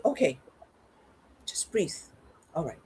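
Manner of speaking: calming self-talk. Retold or imitated. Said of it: "Breathe and say".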